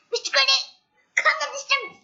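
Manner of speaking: high, loud call from above; a loud summons echoing down the stairs. Acted. Mysterious voice calls Mister Greedy.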